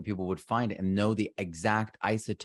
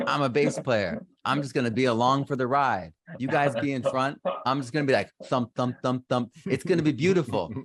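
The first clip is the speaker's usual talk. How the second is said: higher, breezy carefree bass player voice; carefree young self; 4 semitones higher, 3 dB louder than usual. Retold or imitated. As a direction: act out your easygoing younger self, higher. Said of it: "And then I was like".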